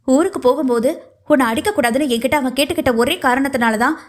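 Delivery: teeth-gritted warning from an irritated mother; angry warning. Acted. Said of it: "பற்களை கடித்து எச்சரித்து".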